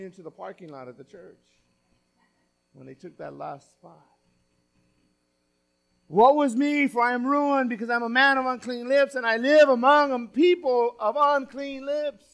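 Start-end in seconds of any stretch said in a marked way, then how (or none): 6.1-12.3 raised, forceful scripture cry; urgent preacher's proclamation, pitched up; dramatic lament. Acted. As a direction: declaim it as the prophet's confession. Preacher reads Isaiah's cry of woe.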